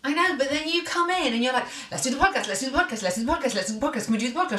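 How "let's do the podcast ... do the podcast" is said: lightly voiced nagging husband, pestering; wheedling repeat, a hint of a whiny husband; mocking impression of husband. Wife teasing her husband by mimicking his nagging. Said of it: "doing an impersonation of me".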